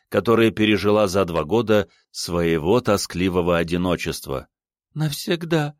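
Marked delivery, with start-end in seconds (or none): 4.9-5.7 put-on higher young woman's voice, tearful; through tears. A narrator's reading. Ada, weeping, tells her lover she came forever, higher and tearful. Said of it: "опять сквозь слёзы".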